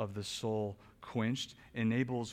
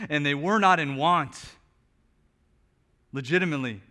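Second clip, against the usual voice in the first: louder, higher, driving pulpit voice; preaching at full force; 6 semitones higher, 10 dB louder than usual. Acted. Pastor urging his congregation, preaching at full force. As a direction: lift it and press the truth home to the room.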